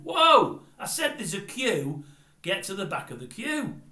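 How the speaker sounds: loud, high yell, slowing on I said; repeated angry shout. Retold or imitated. Same man shouts his warning a second time, loud and insistent. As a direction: insist hard, not letting it go. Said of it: "The guy says again".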